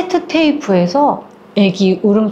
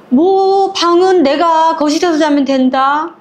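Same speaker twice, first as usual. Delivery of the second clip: slow, higher-pitched brazen mother-in-law; unapologetic; 5 semitones higher, slower than usual. Acted. Mother-in-law waves off her daughter-in-law's objection, unapologetic. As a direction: state it slowly, with total self-assurance. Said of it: "어머니가 너무 당당하게 얘기하는 건".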